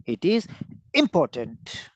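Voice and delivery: "important" set apart after a pause; stress on IMPORTANT. Shown as a demonstration. Teacher demonstrating stress on important, IMPORTANT set apart. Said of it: "Important stress".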